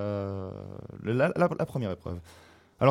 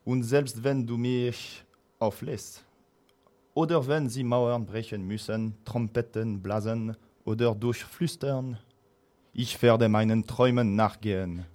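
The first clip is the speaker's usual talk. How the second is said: slow, solemn stage reading; declaiming; slower than usual. Acted. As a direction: recite it like a hammy stage actor. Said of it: "je vais déclamer tout ça en allemand". (déclamation lente et théâtrale)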